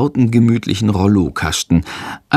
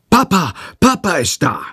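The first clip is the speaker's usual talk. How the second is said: mild joyful calling; joyful shout; 8 semitones higher than usual. Acted. Boy calling through the flat that Papa has come, mildly joyful. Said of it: "schreit freudig durch die ganze Wohnung".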